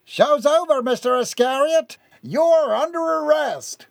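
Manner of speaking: put-on high-pitched young lawman calling out; young man's voice. A narrator's reading. Young officer arresting Gerard, high triumphant call. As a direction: announce the arrest in a high, ringing voice. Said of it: "he heard a young man's voice".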